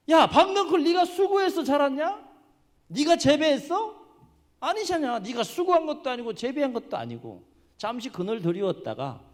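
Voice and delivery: high, loud indignant rebuke; acted scolding. God scolds Jonah over the vine he never grew, loud acted rebuke. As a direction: tell them off with sharp rhetorical questions. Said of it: "호통을 치시는 거예요".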